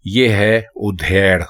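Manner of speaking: slowly, ادھیڑ as "u-dhe-r"; slow correct pronunciation. Shown as a demonstration. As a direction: spell out ادھیڑ with u and long e. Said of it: "یہ ادھیڑ یا ادھیڑ نہیں ہے".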